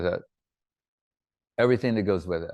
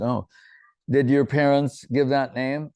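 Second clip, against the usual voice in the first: curious surprise; 3 semitones higher, 3 dB louder than usual. Retold or imitated. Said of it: "I said".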